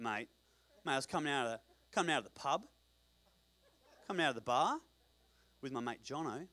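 broad Australian pub storyteller; Australian accent. Acted. One-legged man tells his pub story, Australian accent. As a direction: spin a yarn in matey Australian. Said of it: "that's an Australian accent".

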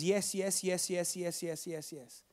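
yes repeated, fading to a hush; trailing repeated yes, dying away. Acted.

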